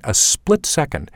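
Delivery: usual speaking voice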